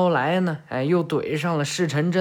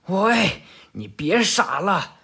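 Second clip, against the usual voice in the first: shout; 3 semitones higher, slower than usual. Acted. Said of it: "八硕喊道".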